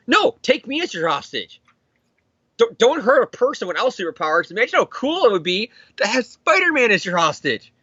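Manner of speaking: high-pitched hero pleading theatrically; mock heroic plea. Hero offers himself as hostage.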